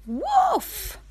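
high, loud playful woof; puppy barks. Acted. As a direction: yip like a little puppy. Mom voices the puppy.

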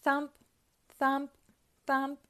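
each thump punched high and loud; storybook sound effect; thumping footsteps. A narrator's reading. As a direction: beat out the footsteps like a drum. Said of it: "went Pac-Man's feet".

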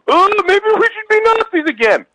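high, loud dopey hick; mock a dumb redneck. Imitating hicks.

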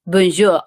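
bonjour in clumsy learner's French; struggling French. Shown as a demonstration. French learner showing her struggle, bonjour awkwardly pronounced. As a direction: try bonjour with an effortful, awkward French accent. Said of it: "having a really hard time".

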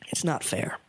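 whisper. Pretend. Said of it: "whispered lament".

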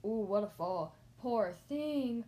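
loud exclamation at normal pitch; shouting onlooker. A narrator's reading. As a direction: exclaim loudly from the crowd. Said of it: "Everyone was shouting".

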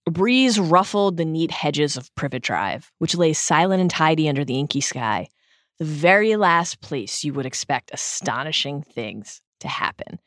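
measured, tender book reading; hushed audiobook narrator; story narration. A narrator's reading. Reads closing paragraph aloud.

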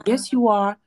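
a hint of a stubborn little girl; imitating insistent daughter.

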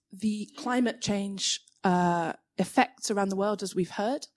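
shaky voice from fatigue; tired, trembling voice; shaking. Real, not acted. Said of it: "Sorry, I'm shaking because I have, um, some fatigue".

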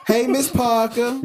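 slow drawn-out greeting. Pretend. Greeting the neighbor in a skit.

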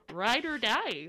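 "ride or die" with a Midwestern twang; a hint of Midwestern accent. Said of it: "you got really Midwestern with that".

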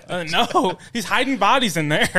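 ordinary delivery

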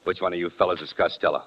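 deep, menacing gangster voice; low and threatening; tough guy. Acted. Tough gangster Alan Ladd.

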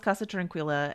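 Spanish name in an American accent; terrible American accent. Real, not acted. Podcaster quoting where Lalo calls, in an American accent. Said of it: "that was a terrible American accent".

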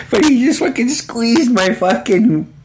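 slow words squeezed out high through laughter; can barely get it out for laughing. Real, not acted. Telling the listeners about Ira's prank, laughing.

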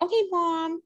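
high kid's put-on New York accent; fake New York accent. Child answering her mother, high fake New York accent. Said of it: "like, a New York accent".

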